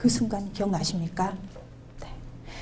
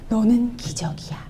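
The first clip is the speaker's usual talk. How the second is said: tender whisper. Retold or imitated. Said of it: "그러니까 얘들이 뭐라 그러게요?".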